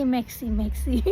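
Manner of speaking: "Merci" with the R dropped, "meksi"; English-accented merci. Shown as a demonstration. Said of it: "I used to say".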